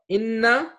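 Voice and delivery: "Inna." rising, n held long; Arabic word. Shown as a demonstration. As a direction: hold the n in "Inna.". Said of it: "That's what we'll learn".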